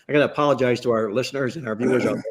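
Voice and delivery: losing his voice; strained, hoarse voice. Real, not acted. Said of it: "I am obviously losing my voice".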